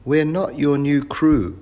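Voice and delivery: high, slow, loud protest; shouting child. A narrator's reading. Wilf corrects the deaf professor, a slow high shout. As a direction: call it out slowly to someone hard of hearing. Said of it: "shouted Wilf".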